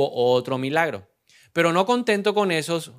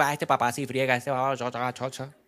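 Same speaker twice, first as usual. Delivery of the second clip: mock whiny kids; 2 semitones lower, 5 dB quieter than usual. Mocking complaining children.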